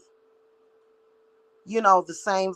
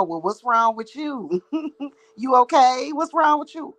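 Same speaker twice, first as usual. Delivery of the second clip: fake concern; 5 semitones higher than usual. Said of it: "sit there and go".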